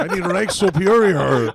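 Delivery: hammed-up fake Asian accent, loud and high; a stereotyped Asian accent put on as a joke; mock Asian accent. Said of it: "as the fake Asian guy".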